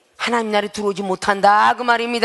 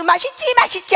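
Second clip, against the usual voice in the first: teasing singsong; 9 semitones higher than usual. Retold or imitated. Jacob taunting hungry Esau with the stew, high and teasing. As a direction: tempt him like a sly little brother.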